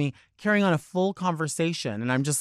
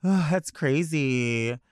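high start, then drawn-out mock wonder; laughing it off politely; fake amused amazement; 3 semitones higher than usual. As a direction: gush insincerely, stretching the words. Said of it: "I'll laugh it off for a second".

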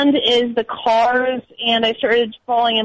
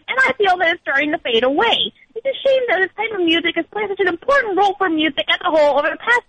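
lightly voiced indignant teenager, pitched up and quick; snobby teen commenter; 5 semitones higher than usual. Reading the YouTube comment to the hosts, lightly voiced smug teen. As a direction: read out the teen's smug rant with a hint of whine. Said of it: "There's another one that says".

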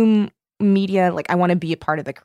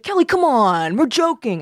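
high, stretched-out mock coaxing; wheedling protest, pitched well up; imitated cajoling; 6 semitones higher, 3 dB louder than usual. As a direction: imitate a boss pleading it was harmless. Imitating boss brushing it off.

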